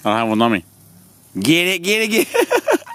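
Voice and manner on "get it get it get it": high, loud cheering; egging the puppy on. Real, not acted. Cheering on the puppy as it plays, high. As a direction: hype up the little dog.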